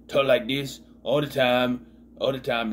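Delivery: Sherman voice. Retold or imitated. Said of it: "most annoying voice I'd ever heard".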